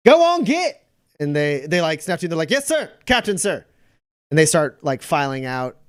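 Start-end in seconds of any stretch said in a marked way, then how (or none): 0.1-0.8 loud, high, curt dismissal; captain chasing off his rowdy privates, loud and high; shooing command. Acted. 2.5-3.6 privates answering. Acted.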